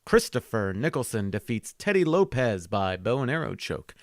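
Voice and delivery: results read like a ballgame announcer. Acted. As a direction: announce each result with flair. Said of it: "I sound like a Bates Ball announcer".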